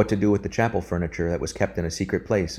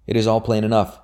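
called out louder and higher; shouted; 4 semitones higher, 5 dB louder than usual. Acted. Anthony calls out for the yeoman to hear, a raised shout. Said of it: "shouted Anthony".

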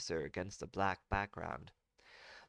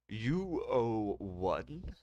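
confused counselor; 2 semitones higher, much slower than usual. Acted. Confused counselor repeats slowly.

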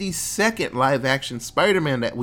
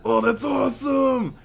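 excited shout; 9 semitones higher than usual. Retold or imitated. Retelling Peter three reacting to the multiverse, excited shout. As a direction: blurt it out like a kid.

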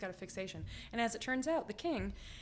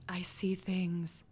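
mystic seer; much slower than usual. Retold or imitated. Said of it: "She puts her hand in front of her face".

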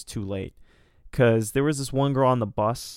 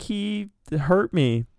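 whiny accusation; 8 semitones higher, much slower than usual. Retold or imitated. Girl accuses him in story.

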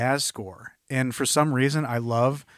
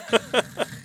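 imitated sound effect; 11 semitones higher than usual. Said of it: "the next sound design where it's like".

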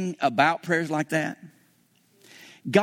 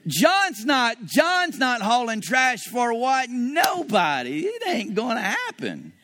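defiant refusal; 4 semitones higher, much slower than usual. Retold or imitated. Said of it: "on the inside, I'm like".

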